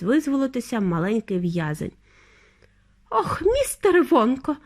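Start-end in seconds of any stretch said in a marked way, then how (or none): 3.1-4.6 high-pitched lament; distraught high moan; wailing mother. A narrator's reading. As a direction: wail for help. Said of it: "голосила пані Тіві".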